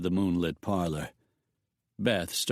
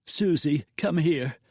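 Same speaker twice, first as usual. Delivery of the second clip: put-on higher, raised call to the child; 6 semitones higher than usual. A narrator's reading. Mother calling her daughter to her, raised. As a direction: call the girl over. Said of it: "Beth called".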